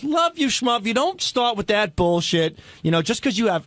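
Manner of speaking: mock angry dressing-down; retold scolding. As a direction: act out her lacing into him. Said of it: "she really laced into me".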